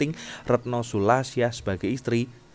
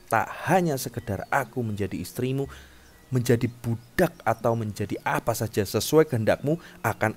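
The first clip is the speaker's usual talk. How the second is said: somewhat raised, emphatic princess voice; defiant captive princess; 3 semitones higher, 5 dB louder than usual. Acted. Captive princess sets terms to the king who wants her, defiant. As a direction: press the demand firmly, as a captive princess.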